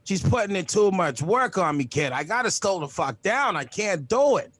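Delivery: lightly voiced worn-out old Boston guy; a hint of a tired seventy-two-year-old from Southie. Comic complains to the crowd about his girl, as an old Southie guy. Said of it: "I sound like a guy that's seventy-two from Southie".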